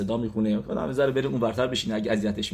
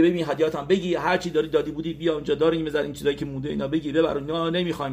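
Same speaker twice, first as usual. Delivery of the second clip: quick, higher-pitched retold outburst; angry wife; 4 semitones higher, faster than usual. Wife refusing the guest's gifts, acted angry outburst. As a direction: rattle off the rejection, imitating her annoyance. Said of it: "زنش خیلی عصبانی میشه".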